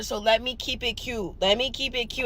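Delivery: soft self-restraint while annoyed; holding back. Real, not acted. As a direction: keep it cute, swallow the anger quietly. Holding back her mean comments.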